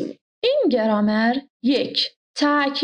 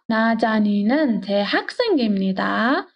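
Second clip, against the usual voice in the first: slow repeat. Shown as a demonstration. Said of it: "slow repeat for learners".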